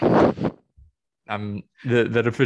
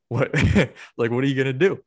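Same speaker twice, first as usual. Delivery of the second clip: Joker-style laugh; 2 semitones higher, 4 dB louder than usual. Retold or imitated. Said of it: "I just started laughing".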